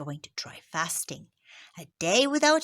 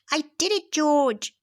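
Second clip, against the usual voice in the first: bright cheer, a touch higher and louder; 7 semitones higher, 6 dB louder than usual. Acted. Kareem cheering to George after his first fast. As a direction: cheer out the win. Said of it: "cheers Kareem".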